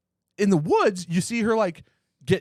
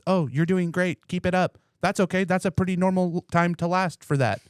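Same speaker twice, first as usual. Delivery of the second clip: higher-pitched, lightly voiced encouraging doll; complimenting sex doll; 5 semitones higher than usual. Imagined sex doll praising its owner, complimenting. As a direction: reassure him in a pretend doll voice. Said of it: "mine would just be throwing out compliments".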